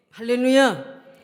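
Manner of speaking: drawn-out loud hallelujah. Real, not acted. Preacher's acclamation.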